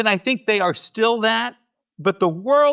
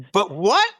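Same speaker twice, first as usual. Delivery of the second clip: retold puzzlement. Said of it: "the next person that says".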